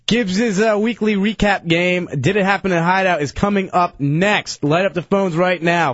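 brisk call-in plug, running the numbers; radio announcer. Real, not acted. Host urging listeners to phone in, announcer voice. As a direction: sell the coming game to listeners.

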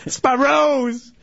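high, drawn-out mock redneck wail; slow, high hammed-up redneck voice. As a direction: imitate the upset redneck. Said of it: "That redneck is just coming at me".

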